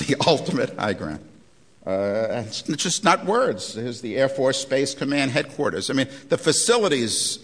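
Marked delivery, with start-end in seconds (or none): 0.1-1.2 laughing repeat. Retold or imitated. Lecturer mocking the Air Force slogan with a low laugh. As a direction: chuckle at the phrase as you repeat it.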